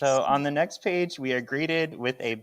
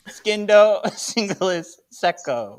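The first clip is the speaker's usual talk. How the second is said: Skindo breaking into a laugh, singulis secco louder; laughing through it; 5 semitones higher, 4 dB louder than usual. Shown as a demonstration. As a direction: giggle mid-spell. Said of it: "Yay, I get this one".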